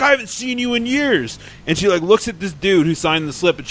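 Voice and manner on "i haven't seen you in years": imitated excited greeting. Retold woman greeting long-unseen driver.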